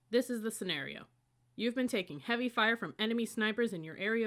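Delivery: brief the squad like it's a real mission; drill briefing. Acted. Upperclassman briefing the squad on the obstacle, commanding.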